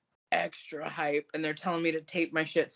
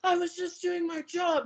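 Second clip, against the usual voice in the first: higher defensive whine; imitating official; 11 semitones higher than usual. Imitating the official, lightly higher defensive voice. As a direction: mimic him pleading innocence. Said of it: "And he's like".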